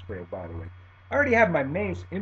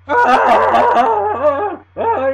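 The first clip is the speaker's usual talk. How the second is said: loud, high scream of pain; imitated agonized screaming; 12 semitones higher, 16 dB louder than usual. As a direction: howl as the spray hits. Pepper spray to the face.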